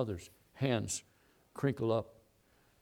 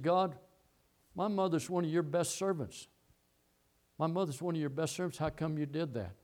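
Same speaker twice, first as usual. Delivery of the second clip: put-on boy angry at God; 4 semitones higher than usual. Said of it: "he got mad at God".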